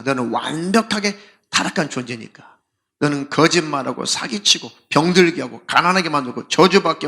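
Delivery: stern rebuke. Retold or imitated. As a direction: lay down the law to the demon. Preacher rebukes demon in exorcism.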